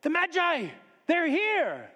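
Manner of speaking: high-pitched cry of warning; yelled alarm. Acted. Townsman warns the village the Magi are here, yelled out. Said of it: "somebody yelled out".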